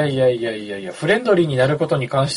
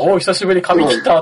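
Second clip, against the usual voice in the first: a light, slightly higher Tamori greeting, lightly voiced; Tamori impression; 5 semitones higher than usual. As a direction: casually greet an old friend as Tamori, a mild imitation. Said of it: "なんでタモさんなんだよ". (タモリの軽いモノマネで、少し高めに)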